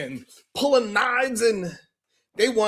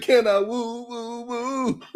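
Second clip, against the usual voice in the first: playful woo; 3 semitones higher than usual. Retold or imitated. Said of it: "I said".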